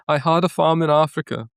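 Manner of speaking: put-on a light Danish accent, Meryl Streep style; quoting Out of Africa in a mild Danish accent. Podcast host shows off her Danish accent, lightly done. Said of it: "That's my Danish".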